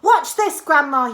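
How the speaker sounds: put-on loud high boy's call; loud high boy's shout. A narrator's reading. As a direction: call out to Grandma. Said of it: "he shouted".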